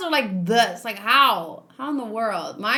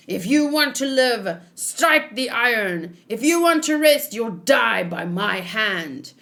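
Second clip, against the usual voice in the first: lightly voiced harsh overseer. Voicing Orochi's guard bossing workers, mock barked orders. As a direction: order the workers like a cruel boss.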